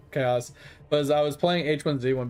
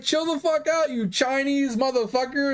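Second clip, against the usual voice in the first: much higher, half-mocking angry yell from another player; mock angry insult; 9 semitones higher than usual. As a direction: imitate the guy snapping at you.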